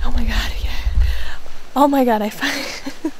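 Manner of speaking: breathless whispered rush of joy; can barely contain it, airy and shaken; overexcited. Real, not acted. Hunter too worked up to calm down, breathless. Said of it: "I gotta calm down".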